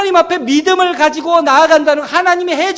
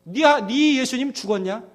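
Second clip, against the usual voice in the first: mock scolding. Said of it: "저를 마음에 혼내셨다고요".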